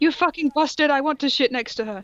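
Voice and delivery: hammed-up read of a silly line; mock angry quote. Reader quoting the fanfic's absurd curse.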